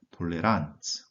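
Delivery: Toleranz very slow, RANZ stressed; end stress. Shown as a demonstration. Teacher models Toleranz, stressed ending. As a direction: stretch it out and land on RANZ. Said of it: "어미의 강세를 두고 읽으셔야 합니다".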